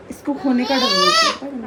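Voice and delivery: real crying about loss. Real, not acted. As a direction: choke up with tears. Tearful, fear of losing.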